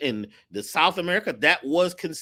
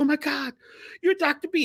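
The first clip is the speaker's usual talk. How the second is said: play-acted starstruck cry, high, tearful, on the verge of sobbing; 10 semitones higher than usual. Speaker retells a store manager recognizing Doctor B, imitating a crying woman. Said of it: "And she starts crying".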